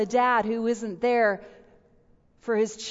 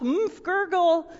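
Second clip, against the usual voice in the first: mock drowning sounds; 5 semitones higher, slower than usual. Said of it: "going down".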